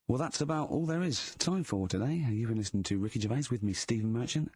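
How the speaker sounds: smooth mainstream DJ link; radio DJ voice. Shown as a demonstration. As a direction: announce it like a slick radio presenter. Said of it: "I'm gonna announce it right and everything".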